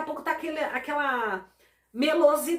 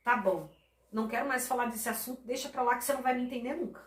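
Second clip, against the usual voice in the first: fast, fed-up brush-off, softer; dismissive; 4 dB quieter, faster than usual. Retold or imitated. Wife hears her husband shutting down the argument, fast and annoyed. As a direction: wave the matter away and rush through it. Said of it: "você está dando a entender é".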